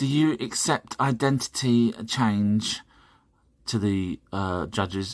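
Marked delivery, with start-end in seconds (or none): 0.0-2.8 slow, affected, showy put-on camp voice. Retelling what an arrested man said to the magistrates: put-on camp voice. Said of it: "in a different camp voice".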